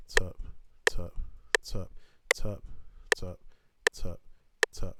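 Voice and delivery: tapping the tempo. Shown as a demonstration. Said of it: "I'm gonna tap the tempo I want".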